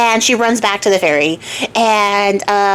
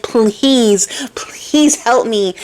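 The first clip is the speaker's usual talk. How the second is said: whispered, slow, begging; pleading whisper; much slower than usual. Retold or imitated. Goat-faced girl on her knees begging the old man, whispered. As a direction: beg for help in a broken whisper. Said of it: "she starts crying and sobbing".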